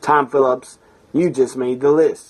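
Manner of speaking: cocky, confident, announcer-style delivery.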